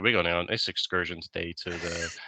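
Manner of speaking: lightly voiced American with an even, level tune; monotone American voice. Imitating the chatty American tourist by the pool, a mild monotone American accent. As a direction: keep it level and droning, a mild American twang. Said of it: "such a monotone American voice like this".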